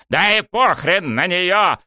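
high, drawn-out holler; yelling. A narrator's reading. Coach closing in on student, yelling. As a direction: wail it out insistently. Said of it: "продолжил вопить он".

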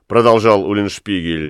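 ordinary delivery, nothing marked

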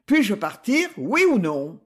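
loud, indignant demand; angry demand. Acted. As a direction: insist loudly, fed up and outraged. Angry director demands to leave.

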